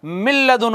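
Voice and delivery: "मिल लदुन" with a doubled l and no n; इदगाम के साथ. Shown as a demonstration. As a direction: join mil to ladun on one held l. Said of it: "क्या हो जाएगा". ("मिल लदुन" में लाम पर शद)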